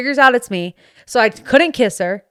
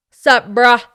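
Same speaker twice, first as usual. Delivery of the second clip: louder bro greeting; 2 semitones higher, 7 dB louder than usual. Pretend. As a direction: greet like a dude. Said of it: "in character".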